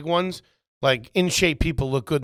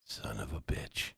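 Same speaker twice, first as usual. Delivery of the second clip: mock disbelief; 16 dB quieter, slower than usual. Real, not acted. Mock shocked mutter.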